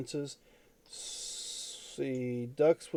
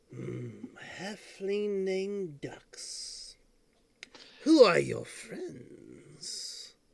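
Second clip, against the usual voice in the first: high-pitched, rasping character voice; 5 semitones higher than usual. In a role-playing scene, a character questions a halfling, raspy voice. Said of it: "all you hear is this raspy voice".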